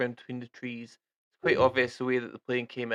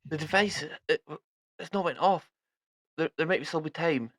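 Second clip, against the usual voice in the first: a bit higher, exasperated scolding; mildly raised exasperation; irritated; 4 semitones higher, 3 dB louder than usual. Acted. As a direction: scold the idiot for missing the point. NPC snapping at pilot.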